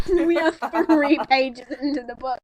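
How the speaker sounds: said through laughter; laughing. Real, not acted. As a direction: laugh as you say it. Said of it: "repeated line".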